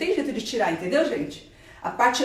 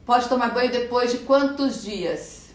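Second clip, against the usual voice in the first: slow, measured question read-out; slow down so listeners can follow; deliberately slower; slower than usual. Real, not acted. Doctor reading a viewer's question after complaints of rushing, deliberately slowly. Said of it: "Eu vou falar um pouquinho mais devagar".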